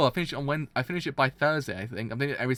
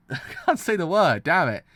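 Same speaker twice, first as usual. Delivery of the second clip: louder, laughing through the complaint; laughing at himself; 3 semitones higher, 5 dB louder than usual. Real, not acted. Streamer laughing as he fails to say necessity. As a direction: laugh at your own flub.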